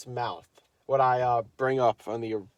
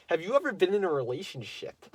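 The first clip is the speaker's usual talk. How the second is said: put-on girl's question, first version; 6 semitones higher than usual. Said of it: "It was more like, let me rephrase that".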